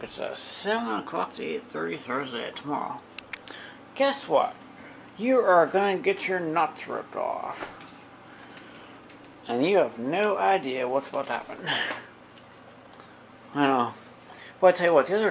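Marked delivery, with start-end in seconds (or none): 3.9-11.3 slow, teasing threat to the dog; mock taunt. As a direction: drag it out like a playful threat.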